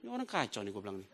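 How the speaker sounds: ordinary talk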